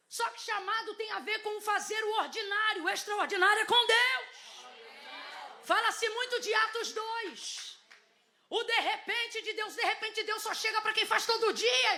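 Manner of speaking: high-pitched impassioned preaching, bursts of shouting; full-force preaching. Real, not acted. Preacher teaching the congregation about daily faithfulness, impassioned and high.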